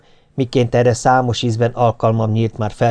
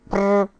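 cat purr; 8 semitones higher than usual. A narrator's reading. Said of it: "felelt a leendő anya".

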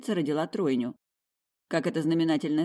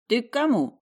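higher, louder brisk question; a curious little man asking; voiced man; 6 semitones higher, 5 dB louder than usual. A narrator's reading. The thin man in the mantle asking the girl, brisk.

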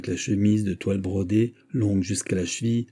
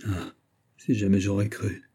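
sighing. Acted. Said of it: "soupira-t-elle".

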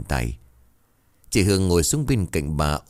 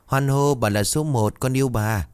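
put-on childlike cheer; 6 semitones higher than usual.

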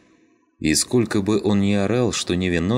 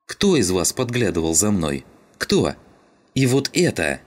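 raised-pitch, indignant questioning; angry demand; 4 semitones higher than usual. Acted. Родька confronts the men about who spied on her, indignant. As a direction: demand an answer from the whole group.

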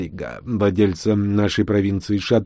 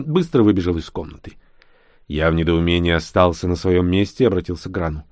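usual speaking voice

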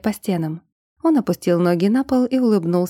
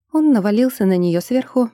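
ordinary delivery, nothing marked

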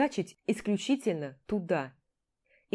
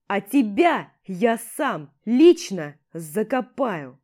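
menacing threat; 7 dB louder, slower than usual. Acted. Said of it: "угрожающе шипя прямо в лицо".

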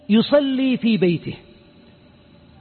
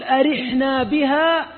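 slow quote; 2 semitones higher, slower than usual. Retold or imitated. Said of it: "الرسول يقول".

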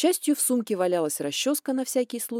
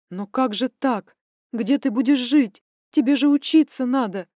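lamenting mother; 4 semitones higher, 6 dB louder than usual. Acted. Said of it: "запричитала мама".

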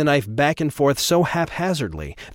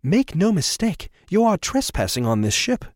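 high, clipped cold anger; angry gentleman; 6 semitones higher than usual. Acted. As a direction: threaten her with icy politeness. Trevor threatens Andrea.

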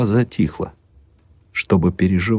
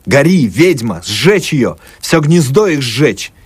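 mob yelling; 6 semitones higher, slower than usual. A narrator's reading. Street crowd yelling to burn the witch, high chant. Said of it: "А с улицы надрывались".

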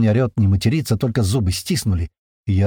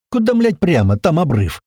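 high, loud panicked yell; alarmed outburst; panicked shout; 6 semitones higher, 4 dB louder than usual. Acted. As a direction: yell in disbelief at the order. Panicked argument while driving.

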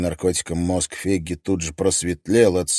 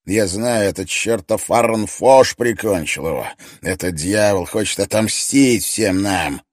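angry rant; 2 semitones higher, 6 dB louder than usual. Acted. Stoffe ranting on the phone.

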